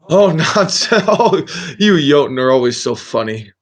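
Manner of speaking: put-on chuckling, dotty old wizard; loopy friendly wizard. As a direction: laugh off the insult, starting high. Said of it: "a little loopy friendly".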